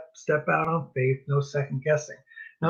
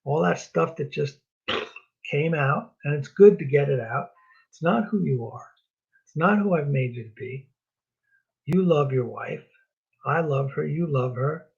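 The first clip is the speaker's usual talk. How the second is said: gentle fatherly God; 3 semitones lower, 4 dB quieter than usual. Pretend. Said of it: "and say".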